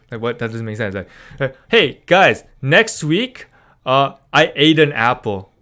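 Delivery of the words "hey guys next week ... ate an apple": mock cheery greeting. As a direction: play a chirpy vlogger opening. Another wrong-tense example sentence.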